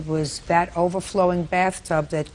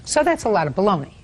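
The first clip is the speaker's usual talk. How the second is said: sarcastic scolding, raised and pointed; sarcastic scolding tv judge; 3 semitones higher than usual. Real, not acted. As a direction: scold him with open sarcasm. Judge mocks defendant's excuse.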